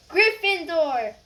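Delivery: sorting hat finally shouting. Acted. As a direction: shout it out at last. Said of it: "When it finally shouted".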